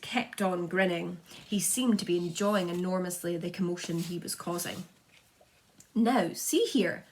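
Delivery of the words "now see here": loud, slow commanding call; shout. A narrator's reading. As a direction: demand attention sternly. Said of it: "shouted the chief of police".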